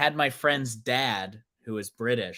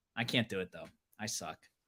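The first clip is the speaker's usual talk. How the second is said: normal talking voice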